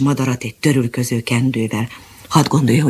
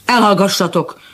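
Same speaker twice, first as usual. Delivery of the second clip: mild mock shout; 5 semitones higher than usual. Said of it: "kiáltotta nekipirulva".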